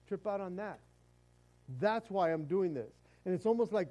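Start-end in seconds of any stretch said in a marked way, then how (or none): 1.8-2.9 indignant self-justification. Acted. Elijah's acted complaint concludes.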